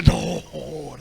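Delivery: a lightly voiced scoffing listener; mock proud man's retort. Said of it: "El orgulloso dice".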